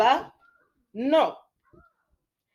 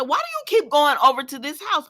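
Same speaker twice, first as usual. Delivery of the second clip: louder, higher, fed-up question at the screen; exasperated call-out; 7 semitones higher, 6 dB louder than usual. Retold or imitated. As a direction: call out at the TV character. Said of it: "I said".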